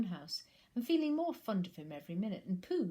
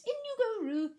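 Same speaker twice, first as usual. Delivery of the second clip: high, louder sudden shout; loud call; 9 dB louder than usual. A narrator's reading. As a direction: shout it out quickly. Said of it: "Rabbit said in a loud voice".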